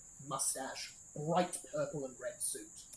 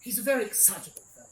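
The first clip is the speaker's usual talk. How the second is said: designer's hushed warning; 5 semitones higher, 4 dB louder than usual. Acted. Designer warning about the Baron.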